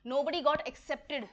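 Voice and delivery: very slow, word by word; teacher reading an example slowly; slow dictation. Shown as a demonstration. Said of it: "slow dictation of example sentence".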